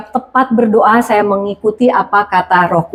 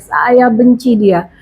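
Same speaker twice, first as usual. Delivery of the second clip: retold tearful prayer; much slower than usual. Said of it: "akhirnya saya nangis ya".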